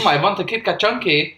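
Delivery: toned-down German shopper; normal German accent. Acted. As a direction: order as a calm German customer. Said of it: "Normal German walks into a shop".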